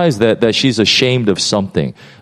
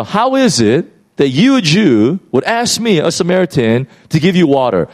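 higher, sharp and defensive; defensive woman; 5 semitones higher than usual. Retold or imitated. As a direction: push back at him, on guard. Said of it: "She's, like, really antagonistic".

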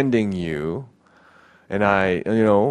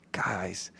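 gentle pleading; 2 semitones lower than usual. Retold or imitated. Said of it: "pleading with us".

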